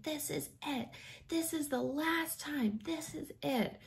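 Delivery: high, strained, fading to a breathy wail; wife half-crying at husband on the highway; retold hysterical cry. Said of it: "I'm like, screaming at Chris".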